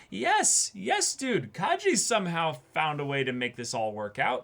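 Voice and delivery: high, squealing fangirl cheer; excited squeal of approval; excited gushing. Retold or imitated. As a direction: gush like a thrilled fan. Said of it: "And I'm like".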